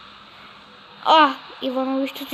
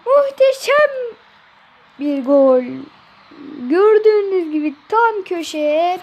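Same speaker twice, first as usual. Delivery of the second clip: screaming football commentator; 9 semitones higher, 5 dB louder than usual. Acted. Mock commentary after goal.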